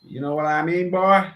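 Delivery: mock Texan accent, pitch lifting at the end; hammed-up Southern US accent; put-on Southern accent. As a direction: play a folksy Southerner, teasing. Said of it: "more like a Southern accent".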